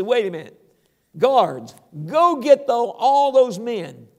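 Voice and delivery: loud royal order to guards; commanding king. Acted. King orders the guards to fetch the accusers, loud and commanding.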